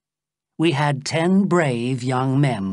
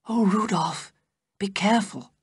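crying out; 7 semitones higher than usual. A narrator's reading. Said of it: "she cried".

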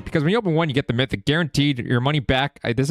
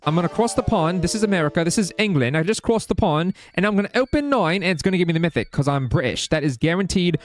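mock British. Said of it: "no more British act".

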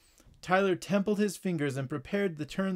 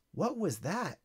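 startled; 4 semitones higher, 5 dB quieter than usual. Acted. Tyler startled.

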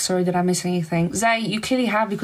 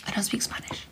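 whisper; 10 dB quieter, faster than usual. Real, not acted. Repeats the line as a whisper.

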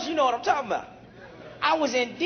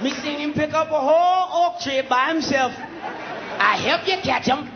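mock eager African; 3 semitones higher than usual. African pointing out Shambuku.

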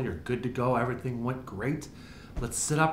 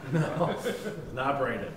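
laughing. Real, not acted. Doctor laughs at friend's joke.

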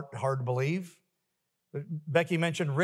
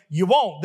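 WON'T punched loud; emphatic reply; 7 dB louder than usual. Acted. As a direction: hit "won't" hard each time. Repeated answer, punched loud.

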